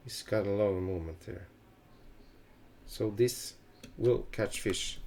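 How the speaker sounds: usual speaking voice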